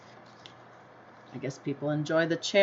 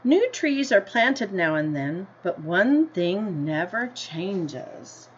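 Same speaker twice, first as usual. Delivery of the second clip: gentle storybook read-aloud, slightly slower; story reading; slower than usual. A narrator's reading. Teacher reading the class a picture book, in an unhurried storybook voice.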